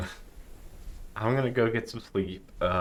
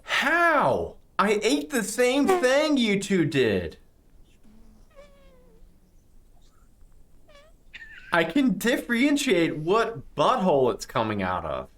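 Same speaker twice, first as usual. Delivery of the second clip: higher, disgusted character voice. Acted. Character reacts to a smell.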